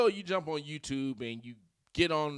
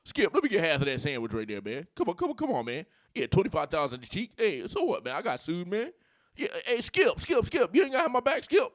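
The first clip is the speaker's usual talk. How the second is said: hammed-up pundit begging his cohost; mock TV-pundit whining at Skip; Shannon Sharpe; 3 semitones higher, 4 dB louder than usual. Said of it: "Sound like goddamn Shannon Sharpe".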